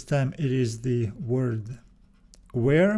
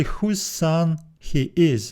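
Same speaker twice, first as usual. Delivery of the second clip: slow literal reading; 2 semitones higher, slower than usual. Shown as a demonstration. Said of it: "So literally".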